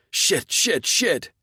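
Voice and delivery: high, loud repeated curses; pained shouting. Acted. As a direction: yell each curse while being stabbed. Stabbed zombie swearing in pain.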